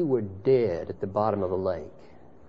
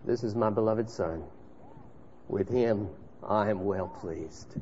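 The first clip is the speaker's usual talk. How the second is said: hushed voice from heaven; 3 semitones lower, 7 dB quieter than usual. Acted. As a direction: speak it with quiet awe. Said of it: "a voice from heaven saying".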